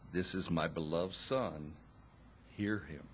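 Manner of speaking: softly spoken but firm, like a loving father; a gentle but firm rebuke from above. Retold or imitated. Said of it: "A gentle but a firm rebuke".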